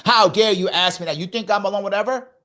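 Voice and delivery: mock angry retort. Friend answers the invitation, mock angry. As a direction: bite back like the question insulted you. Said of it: "why you yelling at me".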